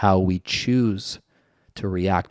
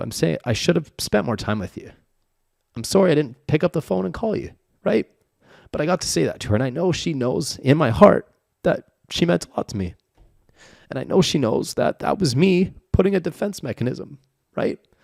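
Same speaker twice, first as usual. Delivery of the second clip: tearful speech, voice pitched up while crying; 8 semitones higher than usual. Opening up to the other speaker about his mom, crying while speaking. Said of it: "I'm crying right now".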